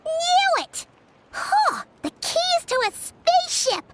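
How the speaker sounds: high, thrilled exclamations; excited outburst. Acted. Paimon thrilled that the keys match, excited cry. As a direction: burst out with delight at being right.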